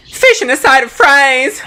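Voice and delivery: mock American voice ordering food; American accent. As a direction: play a brash American ordering. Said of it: "That sounded like an American".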